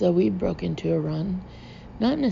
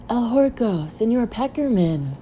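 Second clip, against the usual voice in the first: higher-pitched, mildly triumphant hail; jubilant; 4 semitones higher than usual. Acted. Rebel Ramon saluting Peckerman, jubilant. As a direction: hail a hero with a lift in pitch. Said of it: "said a jubilant Ramon".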